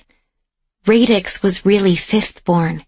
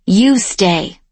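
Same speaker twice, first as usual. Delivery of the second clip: growling. A narrator's reading. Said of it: "Grisham growls".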